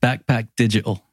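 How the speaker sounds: English accent, said plainly as a model; native English accent. Shown as a demonstration. Host models the phrase for guest to repeat, English accent. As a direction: say it in your own English accent. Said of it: "I'll do it in my native accent".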